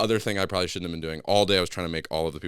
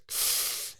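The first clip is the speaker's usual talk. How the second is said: long voiceless breath out; imitated wincing exhale; 6 dB quieter than usual. Physical therapist examines broken arm, imitated sigh. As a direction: let out a therapist's bad-news breath. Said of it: "he does one of those, like".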